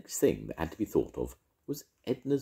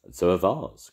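crying out; 3 semitones higher, 7 dB louder than usual. Acted. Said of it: "cried Carbosh".

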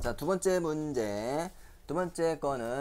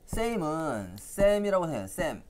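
slow mnemonic; 3 semitones higher, slower than usual. Shown as a demonstration. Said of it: "wordplay mnemonic".

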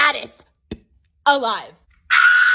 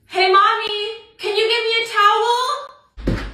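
put-on whiny kid voice; 5 semitones higher, slower than usual. Kid begging mom for towel.

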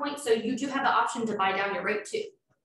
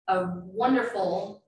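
slow, sarcastic wonderful; slower than usual. Real, not acted. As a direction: drag it out with sarcasm. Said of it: "um, sarcastic".

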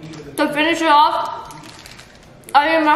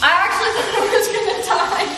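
laughing; 5 semitones higher, faster than usual. Real, not acted. Laughing about nearly dying.

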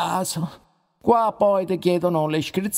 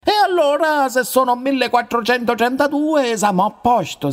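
pleased outburst; 3 semitones higher, 4 dB louder, faster than usual. Acted. Festeggia il numero.

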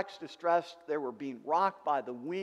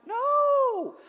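sharp, loud, high-pitched NO; a preacher's emphatic no; 11 dB louder than usual. Real, not acted. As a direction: shout the refusal down hard. Preacher rejects the excuse.

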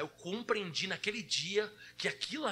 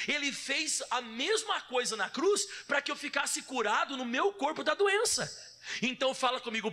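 raised, insistent sermon delivery; emphatic preaching; 4 semitones higher than usual. Real, not acted. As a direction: press each point on the congregation. Preaches with rising force. (pregação insistente)

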